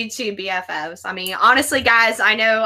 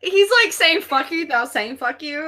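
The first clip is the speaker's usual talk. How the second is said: laughing hard; 4 semitones higher than usual. Real, not acted. Guest laughing hard while retelling the host's reaction. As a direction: crack up while telling it. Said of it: "That's why I'm laughing so hard".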